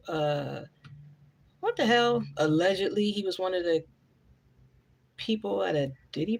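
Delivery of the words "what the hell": retold shock. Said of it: "I think he was like".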